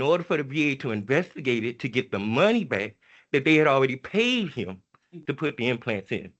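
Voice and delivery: pleading, voice climbing as it breaks; emotional. Real, not acted. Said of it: "I don't mean to get emotional".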